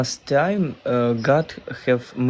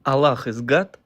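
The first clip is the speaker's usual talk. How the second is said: "Allah is God?" with GOD lifting as a question; unsure, questioning; faster than usual. Real, not acted. Guest answering whether he is Muslim, unsure, as a question. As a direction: state it unsurely, rising on "God". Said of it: "it sounded like a question".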